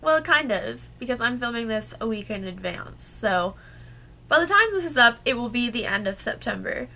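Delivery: hoarse from a cold; sick voice. Real, not acted. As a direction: talk through a sore, sick throat. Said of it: "please excuse my voice".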